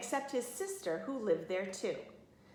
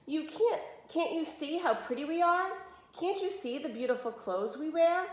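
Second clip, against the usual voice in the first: insistent; 7 semitones higher than usual. A narrator's reading. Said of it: "they insisted".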